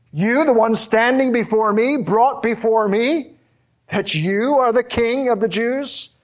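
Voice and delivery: high, incredulous Pilate voice mocking the prisoner; scornful disbelief. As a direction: sneer it, you can't be serious. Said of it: "asks in derision and scorn".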